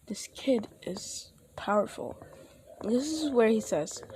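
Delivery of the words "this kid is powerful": hushed, breathless whisper. Acted. Storyteller whispers the stranger's thought about the kid. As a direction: whisper it like a secret.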